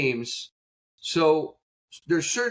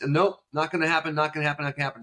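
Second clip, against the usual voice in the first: firm refusal, fading; much faster than usual. Retold or imitated. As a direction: shut it down, then let it fade away. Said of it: "Coach, can we at least".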